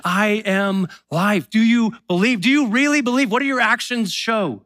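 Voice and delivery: a preacher voicing Jesus, urging belief; Jesus challenging. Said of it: "he says".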